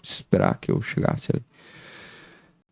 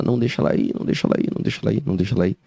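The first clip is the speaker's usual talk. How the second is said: imitating a crying plea; much faster than usual. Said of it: "E eu só ouvi ela falar".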